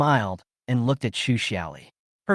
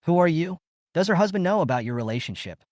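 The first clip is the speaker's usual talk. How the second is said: sneering; 6 semitones higher, faster than usual. Acted. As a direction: sneer the question at him. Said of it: "she sneered".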